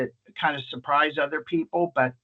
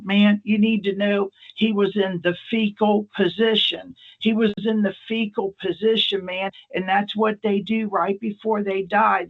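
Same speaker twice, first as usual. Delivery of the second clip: put-on higher-pitched, insistent drunk; imitated weepy drunk; 5 semitones higher than usual. Drunk visitor warning the nurse about his friend, mock weepy urgency. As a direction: whine it earnestly, like a tearful drunk. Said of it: "drunks can cry at the drop of a hat".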